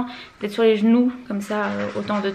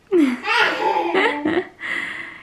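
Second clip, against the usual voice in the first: delighted laugh; 7 semitones higher than usual. Real, not acted. Laughs at baby Robin.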